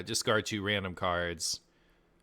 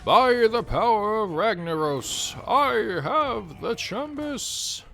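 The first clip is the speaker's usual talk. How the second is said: mock heroic proclamation; 13 semitones higher, 8 dB louder, much slower than usual.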